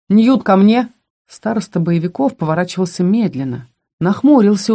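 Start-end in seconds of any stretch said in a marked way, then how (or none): 0.1-0.9 firm call across the field. Acted. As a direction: summon him loudly. Calling a student over.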